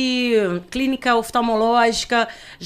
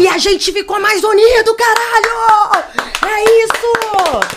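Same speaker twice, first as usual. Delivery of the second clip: loud, higher, slow cheer; triumphant shout; 11 semitones higher, 9 dB louder, slower than usual. Real, not acted. Triumphant shouting about marriage.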